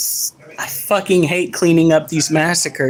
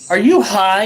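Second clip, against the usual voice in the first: officer question. Retold or imitated. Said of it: "No, it's".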